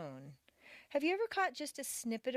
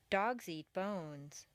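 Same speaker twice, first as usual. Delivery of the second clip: slow "Dogs eat bones", settling to a finished end; "bones" falls to a full stop; simple statement phrasing; much slower than usual. Shown as a demonstration.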